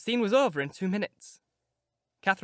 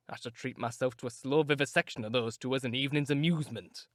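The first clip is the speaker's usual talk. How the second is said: a lightly lowered, cold Heathcliff; Heathcliff's voice; 4 semitones lower than usual. Acted. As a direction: speak as a cruel, mocking master. Heathcliff speaks, voiced low.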